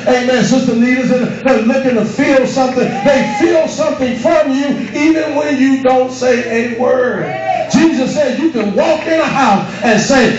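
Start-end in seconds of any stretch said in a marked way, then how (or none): 1.5-9.7 shouted, slowing preacher's cry; preaching at full force. Acted. Preacher to the congregation, shouting the point home. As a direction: lift the congregation with a rising shout.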